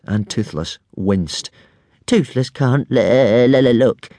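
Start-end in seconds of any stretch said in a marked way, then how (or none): 2.1-4.1 stuttering creature moan; moaning dragon. A narrator's reading. Little dragon can't bear watching the fight, moaning. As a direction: wail it with a stammer, unable to watch. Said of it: "moaned Toothless".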